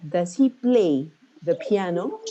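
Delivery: weak "Does", emphasis on "play" and "piano"; stress on PLAY, PIANO. Shown as a demonstration. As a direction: hit "play" and "piano", skim over "Does". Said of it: "So you have play and piano".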